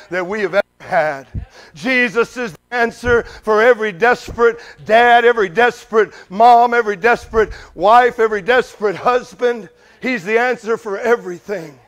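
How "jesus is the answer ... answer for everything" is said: preaching crescendo. Acted. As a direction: build the list like a preacher. Preaching build.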